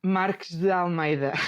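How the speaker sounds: Marques de Almeida in full native Portuguese sounds, spoken as her own name. Shown as a demonstration. Guest says her own name for the host, native Portuguese. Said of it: "How do we say your name the right way?".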